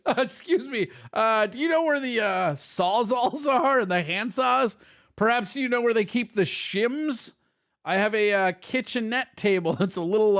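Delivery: lightly voiced polite customer; a hint of a fussy shopper. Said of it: "I would go in ... to hear his lisp".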